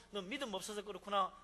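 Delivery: loud accusing rebuke. Acted. Friend scolding Job for lack of faith, loud accusing voice. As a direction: call him faithless to his face.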